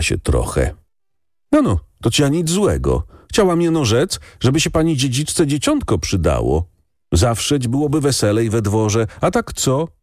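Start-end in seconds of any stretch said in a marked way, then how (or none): 1.5-9.9 higher, lively village woman's voice; a reaper woman teases the lady, higher, sing-song; peasant woman calling. A narrator's reading. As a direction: call out cheerily to the young lady of the manor.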